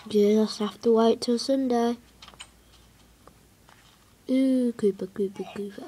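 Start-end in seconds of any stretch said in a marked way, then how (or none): 4.3-5.8 alarmed hushed whisper. Real, not acted. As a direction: whisper the warning urgently. Spots a creeper nearby.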